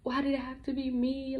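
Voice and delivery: pleading why, recalled through mild distress; retold tearful plea. Speaker recalling her questions to God, retold tearful plea. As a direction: plead upward, as if retelling a cry to God. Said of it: "And I'm just crying".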